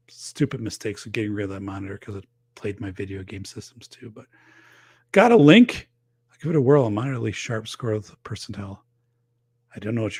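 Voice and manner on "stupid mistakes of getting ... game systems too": whispering. Real, not acted. Whispered self-reproach.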